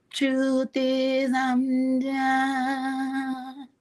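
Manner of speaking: high, fed-up voice, slowing right down at the end; a put-upon sigh of a thought, spoken out; exasperated inner voice. Retold or imitated. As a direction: tell her off in your head, done with her. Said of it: "And I'm thinking to myself".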